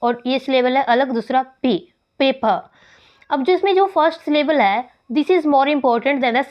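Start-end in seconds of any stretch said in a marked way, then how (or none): 2.2-2.7 पेपर as "PAY-puh", no final र; silent final r. Shown as a demonstration. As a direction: say पेपर in two syllables, dropping the र. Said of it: "ये एक syllable है पे". (पेपर, पहले syllable पे पर ज़ोर, र के बिना)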